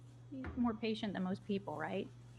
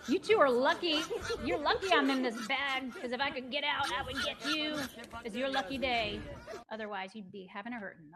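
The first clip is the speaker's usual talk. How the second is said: voicing a tough little dog; 2 semitones higher than usual. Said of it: "Little dog was like".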